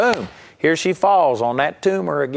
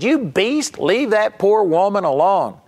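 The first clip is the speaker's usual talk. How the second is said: much higher, indignant mock yell; angry heckle; 6 semitones higher than usual. Audience man yells at Smith, indignant. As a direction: scold the healer from the crowd. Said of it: "he yelled out and he said".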